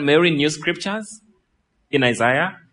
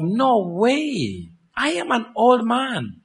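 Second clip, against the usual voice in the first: retold doubting priest; 6 semitones higher, slower than usual. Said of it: "the statement of his response is one of".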